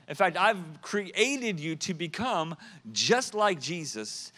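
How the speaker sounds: fervent preacher's build; preaching. Real, not acted. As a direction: drive the scripture home to the congregation. Preaching at full force.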